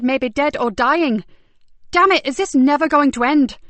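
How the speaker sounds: urgent frustration. Acted.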